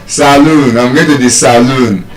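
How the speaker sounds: salon said as sa-LOON; local second-syllable stress. Shown as a demonstration. Teacher showing the everyday local way, salon as sa-LOON. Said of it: "Normal, normal, we say what?".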